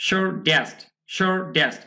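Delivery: "shortest" split as "shor-dest"; American soft T. Shown as a demonstration. Teacher offering learners an option, "shortest" as "shor-dest". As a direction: soften the first T of "shortest" to D. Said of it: "আবার আপনি ইচ্ছা করলে".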